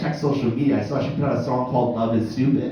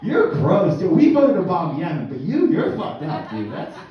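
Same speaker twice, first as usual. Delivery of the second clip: high mocking disgusted voice; grossed-out coworkers; 7 semitones higher, 3 dB louder, slower than usual. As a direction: sneer it like a grossed-out bro. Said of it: "everyone was like".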